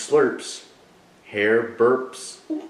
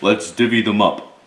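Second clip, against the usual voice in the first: a hint of a grinning badger, a bit louder; lightly voiced badger; 6 dB louder than usual. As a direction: sniff out the treats with a friendly grin. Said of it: "Badger says with a grin".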